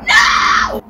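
panicked shout. Real, not acted. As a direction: shriek at a slip of the brush. Makeup mistake shout.

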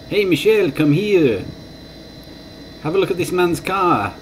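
high mock French lady calling her friend over; terrible French accent. French lady calls her friend to look at the car, mock French accent. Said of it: "my terrible French accent".

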